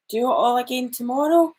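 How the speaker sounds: put-on gentle read-aloud voice for children; story reading. A narrator's reading. Librarian reading a picture book to children, gentle storytelling.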